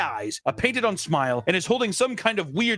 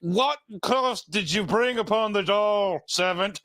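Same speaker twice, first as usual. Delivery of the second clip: a lightly voiced outraged father; mock stern dad; slower than usual. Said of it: "Gene's dad was like".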